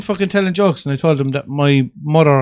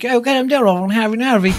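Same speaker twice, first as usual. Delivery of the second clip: higher-pitched quote of a fella; imitated fella; 6 semitones higher than usual. Retelling what a fella said years ago, imitated. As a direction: imitate a fella giving directions, voice lifted. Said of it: "a fella turned around years ago and he was like".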